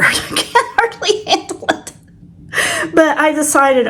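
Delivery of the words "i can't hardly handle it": breathy laugh through the words, up high; laughing at herself while admitting it. Real, not acted. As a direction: giggle it out at her own excuse. Joking about being so tired.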